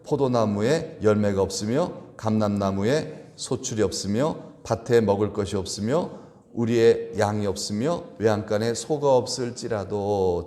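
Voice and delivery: slow congregational recitation; scripture reading. Shown as a demonstration. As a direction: read the verse aloud together, slowly. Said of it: "시작".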